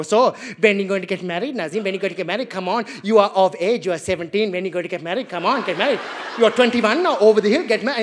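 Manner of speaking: pushy auntie voice, loud at the end; nagging auntie. Retold or imitated. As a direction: badger him like a nosy auntie. Aunties nagging about marriage.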